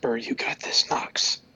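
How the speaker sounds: whispered under the breath, hushed. A player's character encourages him as the hushed crowd turns to look: whispering. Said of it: "I'll whisper".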